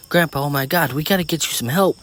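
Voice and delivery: high, loud urgent alarm; panicked. A narrator's reading. Girl to her bleeding grandfather, panicked. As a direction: plead urgently to get help.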